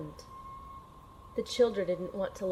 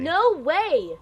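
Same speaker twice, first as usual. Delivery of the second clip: loud, sharp and higher, flinging it at them; defiant shout; 7 semitones higher, 7 dB louder than usual. Acted. The agent defies the villains with a loud shout. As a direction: refuse them at full voice.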